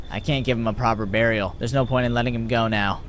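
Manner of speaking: low, drained voice; weary widow. Acted. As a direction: state it wearily as the exhausted traveler.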